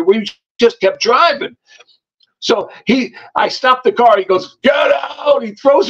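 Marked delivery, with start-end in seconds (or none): 4.6-5.4 high, strained mock yell; raised, acted furious command; retold angry shout. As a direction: imitate ordering someone out. Man orders her out of car.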